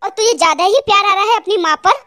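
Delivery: controlled, indignant anger; angry. Acted. Husband telling wife to leave with her mother, angry. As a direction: throw it back at them with restrained anger. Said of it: "आज ये इतने गुस्से में क्यों बात कर रहे हैं".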